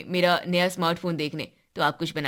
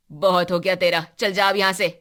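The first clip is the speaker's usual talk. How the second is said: louder, furious yell throwing friend out; angry shout; 6 dB louder than usual. Acted. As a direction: snap and order him out loudly. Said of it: "शौर्य के तेज चिल्लाने की वजह से".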